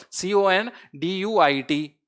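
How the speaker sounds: each letter drawn out slowly; slow spelling. Shown as a demonstration. Teacher spelling conduit slowly for students to memorize. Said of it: "फिर से याद करो".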